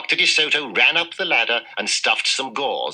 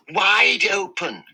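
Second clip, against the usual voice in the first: yell; 10 semitones higher, slower than usual. A narrator's reading. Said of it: "yelled his wife".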